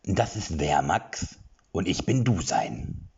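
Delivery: slow, courteous little creature; polite creature. Acted. Creature introducing itself to Erik, polite. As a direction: introduce yourself politely and slowly. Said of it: "beinahe schon höflich".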